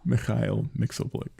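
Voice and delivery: put-on slow Russian-accented name. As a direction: Mikhail with Russian kh. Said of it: "of course he's Russian".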